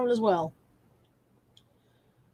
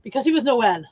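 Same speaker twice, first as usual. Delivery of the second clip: lightly put-on, shaky attempt at Scots; attempted Scottish accent; 4 dB louder than usual. Streamer retrying the Santa punchline, bad Scottish accent. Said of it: "I can't do Scots".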